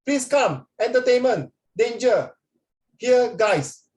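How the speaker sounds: high, urgent telegram voice; telegram message. Retold or imitated. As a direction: read out the garbled telegram. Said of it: "the telegram said".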